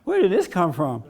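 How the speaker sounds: stunned amazement. Retold or imitated. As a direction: marvel at it, genuinely stunned. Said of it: "I'm stunned".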